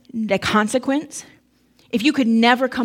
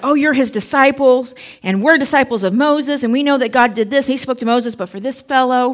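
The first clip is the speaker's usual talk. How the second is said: insulting retort; 2 semitones higher, 3 dB louder than usual. Retold or imitated. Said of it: "they began to hurl insults at him".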